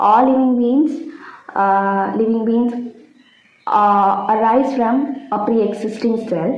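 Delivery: slow, careful dictation pace. Acted. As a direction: spell it out for notes, slowly. Repeating points as dictation. (പതുക്കെ പറഞ്ഞുകൊടുക്കുന്ന രീതി)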